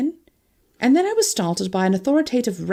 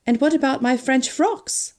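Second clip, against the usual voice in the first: mock lament; 5 semitones higher than usual. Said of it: "I lamented mockingly".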